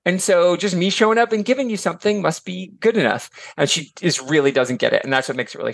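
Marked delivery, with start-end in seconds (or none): 0.0-3.3 put-on smug rich girl. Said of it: "she thinks".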